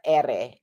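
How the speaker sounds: "R" as Spanish "erre", rolled. Shown as a demonstration. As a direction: bounce the tongue several times on "R". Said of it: "is a rolled R".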